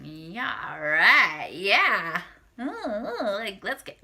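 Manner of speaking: leer over "all right" like he's hot; impressed all right. Shown as a demonstration. To the listeners, the lusty kind of "all right". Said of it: "not as in".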